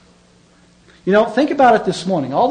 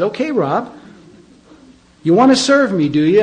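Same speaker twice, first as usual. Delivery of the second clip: voice of God; 4 semitones higher, 5 dB louder than usual. Retold or imitated. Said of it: "He said".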